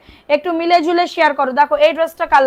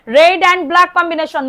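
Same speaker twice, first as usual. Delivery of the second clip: drawn out slowly; 2 semitones higher, much slower than usual. Shown as a demonstration. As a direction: stretch each word of "red and black combination" out very slowly. Live sale, repeats colour slowly.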